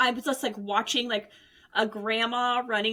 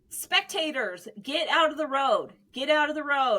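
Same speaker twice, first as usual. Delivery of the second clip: mild mock yell over a PA; imitated announcer yell; 4 semitones higher than usual. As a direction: mimic an announcer warning the crowd. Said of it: "the announcer is, like, yelling".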